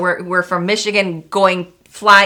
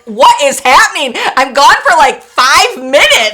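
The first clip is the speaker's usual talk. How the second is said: raised, emphatic retold bewilderment; exasperated disbelief; 5 semitones higher, 4 dB louder, slower than usual. Mom back from the airport, re-enacted exasperated disbelief. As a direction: act out mild outrage, stretching the last words.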